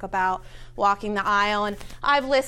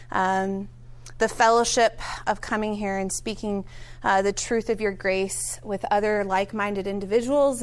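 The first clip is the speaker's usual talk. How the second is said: prayer; 2 semitones lower than usual. Acted. Leading the group in an opening prayer, earnest. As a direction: pray sincerely to the Father.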